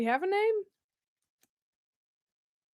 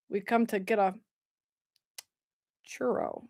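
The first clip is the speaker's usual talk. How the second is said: put-on New York accent; 5 semitones lower, 8 dB quieter than usual. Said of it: "What do people do in New York".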